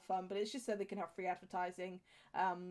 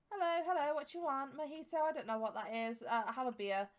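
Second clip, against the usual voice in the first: lightly voiced bartender, higher at the start; pretend bartender; 4 semitones higher than usual. Player voices the game character behind the bar, mock bartender patter. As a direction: play at serving drinks, starting high then settling. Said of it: "imagine him serving the drinks".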